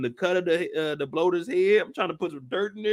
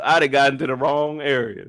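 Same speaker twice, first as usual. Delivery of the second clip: lightly voiced Ellie retake; Ellie repeated; 4 semitones lower than usual. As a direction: slightly lower repeat of Ellie's line. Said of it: "Ellie like".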